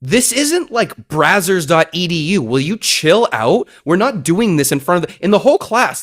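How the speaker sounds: retold teacher's reprimand; exasperated telling-off. Teacher tells kissing pupils to chill out, exasperated.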